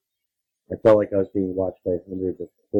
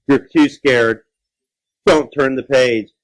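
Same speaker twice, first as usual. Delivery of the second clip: louder, slow teasing dare; 3 semitones higher, 3 dB louder, slower than usual. Shown as a demonstration. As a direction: push the dare harder. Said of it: "repeated louder tease".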